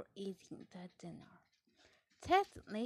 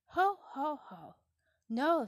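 high, loud ho ho ho chuckle; laughing no; 6 semitones higher, 10 dB louder than usual. Acted. Mama Pig reassures Peppa with a loud, amused laugh. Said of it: "said Mama Pig".

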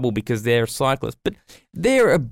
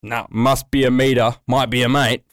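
mocking voice; 2 semitones lower than usual. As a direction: sneer it like the politician's slogan. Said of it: "mocking the minister".

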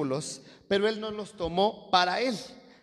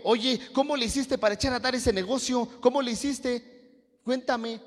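high-pitched acted curiosity, impressed; eager admiration; 6 semitones higher than usual. Preacher voices an admirer asking about a business, eagerly impressed. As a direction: play someone keen to learn the secret.

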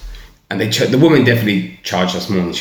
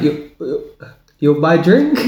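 put-on light Greek-accented barmaid, higher; 7 semitones higher, slower than usual. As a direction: coax him in a faint Greek accent. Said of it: "In that accent and that way".

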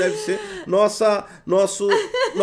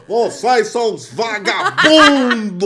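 Ciro impression; much slower than usual. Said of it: "Ó o Ciro".

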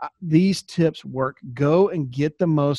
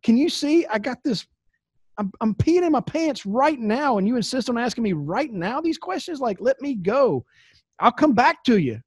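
impatient brush-off; 6 semitones higher than usual. Retold or imitated. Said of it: "I'm like".

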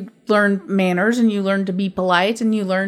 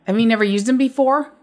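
condescending. Retold or imitated. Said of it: "Like that".

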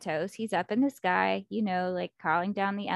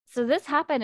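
mock shocked reaction; 5 semitones higher, 3 dB louder than usual. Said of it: "I'm, like, screaming".

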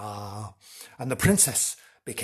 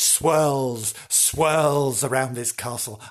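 mysterious swirl; slower than usual. Shown as a demonstration. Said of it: "swirls scarily around this castle".

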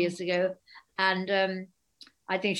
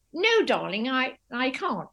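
posh darling voice; 5 semitones higher, slower than usual. Retold or imitated. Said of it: "I talk the same when I'm speaking to her".

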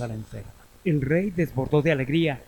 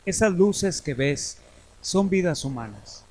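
slow, solemn grim reaper; 4 semitones higher, slower than usual. Acted. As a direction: speak slowly like Death. Death shows the cave of candles.

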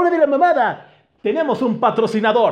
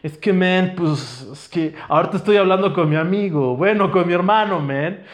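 low mumbled buddy voice; lightly voiced old friend; a hint of a drowsy old pal trailing off; voicing old pal; 3 semitones lower than usual. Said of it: "¿qué me platicas tú, anciano?".

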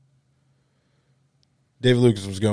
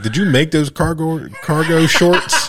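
higher, cracking up mid-roast; mocking through laughter; 7 semitones higher, 3 dB louder than usual. Comic mocking cargo shorts, laughing. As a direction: tease the shorts while laughing.

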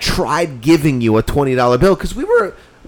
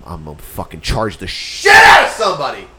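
louder, lower boastful yell; mock shout; 4 semitones lower, 4 dB louder than usual. Imitating the friend bragging about his prices with a loud yell. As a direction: bark it out as a cocky boast.

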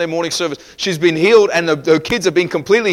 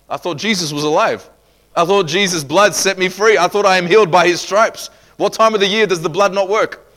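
raised, challenging preacher voice; forceful preaching; 4 semitones higher, 5 dB louder than usual. Real, not acted. Preacher challenging the congregation's resignation, forceful preaching.

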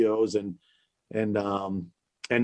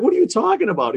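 high, loud startled retort; incredulous disbelief; 11 semitones higher, 4 dB louder, faster than usual. Retold or imitated. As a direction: blurt it out, stunned. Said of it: "I was like".

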